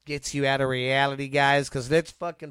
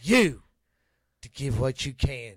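lightly voiced preacher asking for money; hollering revival preacher. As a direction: pass the collection plate, preacher style. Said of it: "You sound like a T V evangelist".

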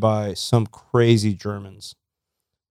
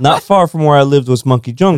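laughing; 4 semitones higher than usual. Real, not acted. Laughing while repeating the story.

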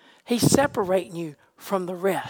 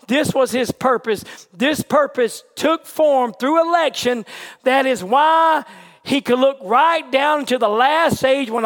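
raised, driving sermon delivery; emphatic pulpit proclamation; fervent preaching; 4 semitones higher, 4 dB louder than usual. Real, not acted. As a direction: preach it boldly to the congregation. Preaches with rising force.

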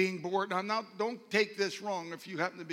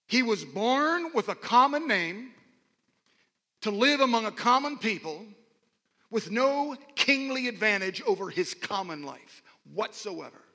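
emphatic preaching; 2 semitones higher, 7 dB louder, slower than usual. Real, not acted. Preaches a key point.

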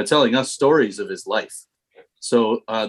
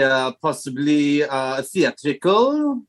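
put-on French accent; much slower than usual. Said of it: "say them in a French accent".

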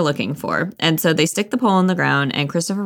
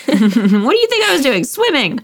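put-on higher, smug little kid voice; squeaky Roo; 8 semitones higher than usual. Roo answering friends who ask, squeaky and proud. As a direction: pipe it up like it's obvious. Reading Roo's line.

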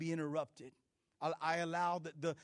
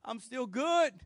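hammed-up sigh of relief, higher; relieved the line finally moves; mock relief; 6 semitones higher, 4 dB louder than usual. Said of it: "You're like".

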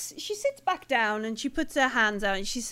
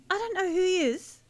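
questioned woman; 6 semitones higher, 5 dB louder than usual. Acted. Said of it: "She's like".

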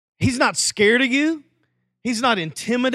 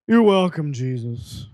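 talking-cat voice; 5 semitones lower than usual. Retold or imitated. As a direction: say it like a talking cat, sinking away. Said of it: "if a cat could talk and had a voice".

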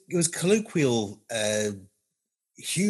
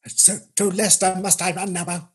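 Johnny Gielgud; 5 semitones higher than usual. Acted. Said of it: "It's all very clipped and painful".

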